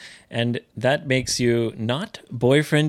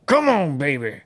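pep-talk call. Pretend. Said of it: "喝を入れてほしい".

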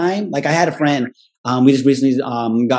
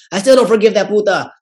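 laughing mock grudge; 7 semitones higher, 3 dB louder than usual. Mocking grudge-holding relative, laughing.

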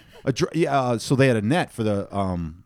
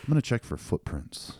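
troll hunter voice; 2 semitones lower than usual. Acted. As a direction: narrate clues like a serious troll hunter. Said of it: "Do your troll voice".

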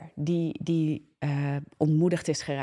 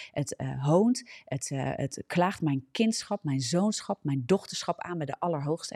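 earnest declaring prayer. Acted.

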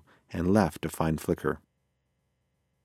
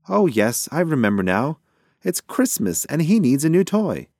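higher, animated pigeon character; confident pigeon; 7 semitones higher, 4 dB louder than usual. A narrator's reading. Pigeon makes a wrong guess to his friend, confident and animated. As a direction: blurt the guess in a raised cartoon-bird voice.

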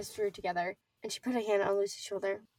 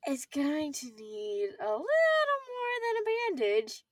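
informing; 6 semitones higher than usual. Acted. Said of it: "Nora informed her".

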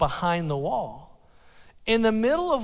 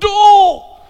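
high, loud Homer Simpson howl of despair; cartoon dad's anguished high yell; 12 semitones higher, 16 dB louder than usual. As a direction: wail it like Homer Simpson caught out. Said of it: "I did my best Homer Simpson".

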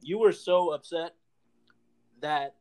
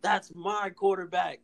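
higher-pitched, imitating a fan yelling; hammed-up higher fan shout; mock stadium yell; 4 semitones higher than usual. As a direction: play the friend hollering leaving the stadium. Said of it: "screaming out of the stadium".

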